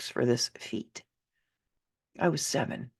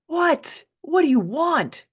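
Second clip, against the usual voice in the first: high, loud irritated shout; mother's angry yell; 12 semitones higher, 6 dB louder, slower than usual. Acted. Mother yelling at her child through the bedroom door, angry. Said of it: "Her voice made the door shake".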